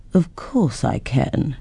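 lazily confident creature; unhurried dragon. Acted. Dragon boasts.

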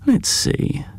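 breathy teasing whisper. A narrator's reading. Jed teasing his brother from the window, whispered. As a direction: hush it playfully. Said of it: "unvoiced whisper".

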